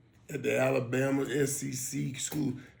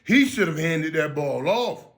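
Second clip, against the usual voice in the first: louder, slow and blunt; just say it straight out, emphatic; blunt callout; 3 semitones higher, 8 dB louder than usual. Retold or imitated. Telling the analyst what he should have said, blunt and loud. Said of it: "instead of saying".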